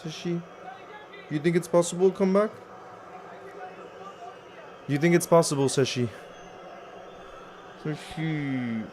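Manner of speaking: hushed, gentle coaxing of the pet; quiet voice for a pet; soft pet talk. Real, not acted. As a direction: murmur to the cat as if not to startle it. Talking softly to his pet.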